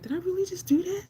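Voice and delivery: high, incredulous self-questioning; mock-stunned at your own nerve; retold disbelief. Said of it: "I'm still kinda in disbelief".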